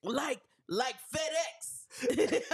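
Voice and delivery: slow words through laughter; laughing. Real, not acted. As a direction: laugh out the guess. Laughing through charades guess.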